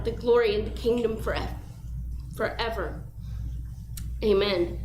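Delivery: spoken Lord's Prayer. Real, not acted. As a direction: pray it aloud to the room.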